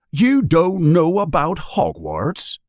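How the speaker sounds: high, slow astonished giant; can't believe the boy doesn't know; shocked. Acted. Hagrid shocked that Harry knows nothing, high. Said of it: "looking shocked".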